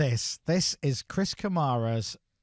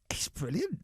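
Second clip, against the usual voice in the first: softly whispered secret; 4 semitones higher, 6 dB quieter than usual. Retold or imitated. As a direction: whisper it like gossip. Friend confiding about the album.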